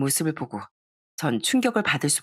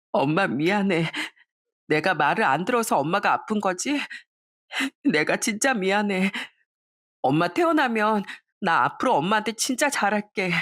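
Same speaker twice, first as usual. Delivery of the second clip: tearful apology; 4 semitones higher than usual. Acted. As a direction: beg forgiveness through tears. Daughter apologizing to sick mother.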